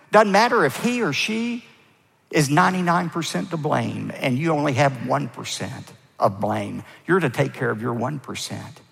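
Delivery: usual speaking voice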